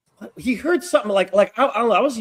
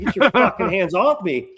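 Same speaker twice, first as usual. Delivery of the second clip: retold angry demand; 4 semitones higher, 4 dB louder than usual. Retelling his repeated angry demand.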